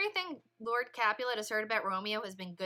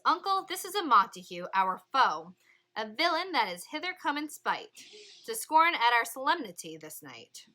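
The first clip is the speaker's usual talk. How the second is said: indignant Tybalt; 2 semitones higher, 5 dB louder than usual. Acted. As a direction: denounce the intruder loudly to your uncle. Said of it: "And Tybalt says".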